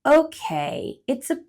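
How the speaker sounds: hesitant squirrel. Acted. Hesitant squirrel agreeing. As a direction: squirrel agrees to snowball fight, reluctant.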